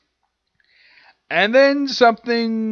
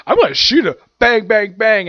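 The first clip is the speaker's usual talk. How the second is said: higher and louder, gleeful mock gunfire; mock villain shout; 5 semitones higher, 7 dB louder than usual. Retelling Blackbeard's attack to viewers, a hammed-up yell. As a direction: ham up the villain pulling the trigger.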